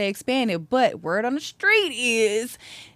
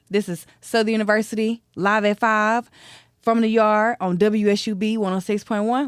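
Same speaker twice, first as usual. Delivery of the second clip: radio announcer; 2 semitones higher than usual. Acted. Radio sign-off.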